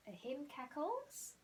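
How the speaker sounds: slow, careful model sentence; slow teacher model. Shown as a demonstration. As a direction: spell it out slowly for young learners.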